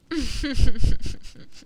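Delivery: closed-mouth rippling chuckle; amused villainous giggle. Acted. Witch laughing at her captive keeping secrets, amused. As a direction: giggle darkly through closed lips.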